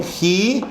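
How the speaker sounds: JI with a stressed, drawn-out I; stressed vowel. Shown as a demonstration. Teacher showing that the accent mark sounds stronger, stressed vowel. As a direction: make the accented I in JI stand out. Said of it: "suena más".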